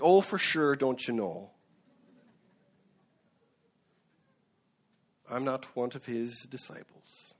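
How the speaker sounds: put-on northern accent, coming out rather Irish; improvised northern accent, light and half-convincing; attempted northern accent. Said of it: "that was more Irish than northern".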